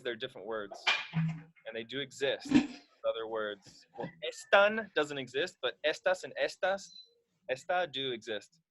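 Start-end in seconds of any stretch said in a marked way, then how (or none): 4.2-4.9 "están" said as ES-tan; stress on first syllable. Shown as a demonstration. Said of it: "without the accent". 5.9-6.9 "estas and estas" said as ES-tas; stress on first syllable. Shown as a demonstration. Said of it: "without the accent". 7.5-7.9 "esta" said as ES-ta; stress on first syllable. Shown as a demonstration. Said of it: "without the accent".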